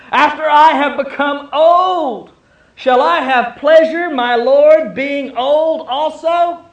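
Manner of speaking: high, loud and slow, laughing through the words; laughing at the very idea of motherhood; laughing old Sarah. Acted. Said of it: "Sarah laughed to herself, saying".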